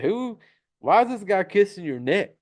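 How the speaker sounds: high-pitched mock disbelief; retold shocked question. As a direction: imitate a daughter's startled demand. Retold shock at mom being kissed.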